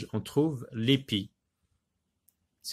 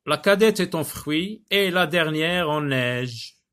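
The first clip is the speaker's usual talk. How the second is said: higher, louder verse recital; poem reading; 5 semitones higher, 5 dB louder than usual. Acted. Teacher rereads the verse about snow, projected recital. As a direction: declaim the verse clearly for a class.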